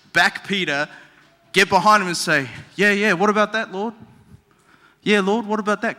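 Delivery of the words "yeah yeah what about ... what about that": put-on disciples chiming in, light Kiwi accent; higher-pitched Kiwi backing up a friend. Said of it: "every disciple has a Kiwi accent".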